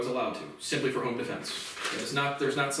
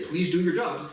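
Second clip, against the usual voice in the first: authoritative. Shown as a demonstration. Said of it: "in, like, an authoritative".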